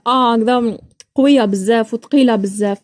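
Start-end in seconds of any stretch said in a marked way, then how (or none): 0.1-0.3 "آه" as a heavy, open long a; heavy Iraqi aa. Shown as a demonstration. Showing the heavy Iraqi vowel, "آه" said wide open. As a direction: say "آه" full and open, without imala. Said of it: "ماشي كيما العراقية زعما جاية هكذا".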